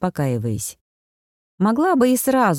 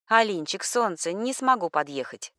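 покаянно; 7 dB quieter than usual. A narrator's reading. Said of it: "сообщила покаянно".

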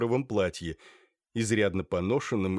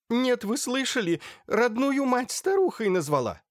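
tearful wail; 3 dB louder than usual. Acted. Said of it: "Громко всхлипывая".

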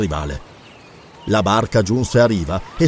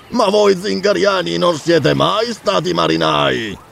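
mocking taunt; 4 semitones higher, slower than usual. Pirate mocks rival's seamanship.

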